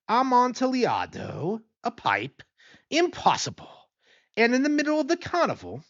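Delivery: a tipsy friend, thrilled and incredulous; excited disbelief. Acted. Drunk Fortunato hears of the wine.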